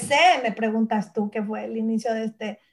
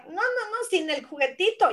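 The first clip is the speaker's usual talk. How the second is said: put-on kid's voice; 6 semitones higher than usual. Voicing her kids.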